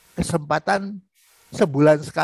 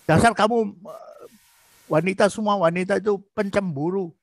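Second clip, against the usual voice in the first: emotional retort; 2 semitones higher than usual. Shown as a demonstration. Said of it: "Jangan suaranya keras itu".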